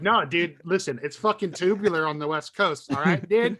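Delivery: put-on California surfer accent. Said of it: "you have a California accent".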